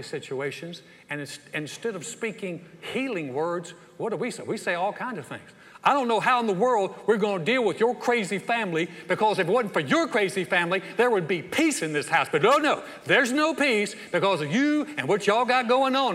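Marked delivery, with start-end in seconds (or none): 5.8-16.1 louder, higher mock family complaint; heated quarrel. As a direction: rant it at the spouse in mock exasperation.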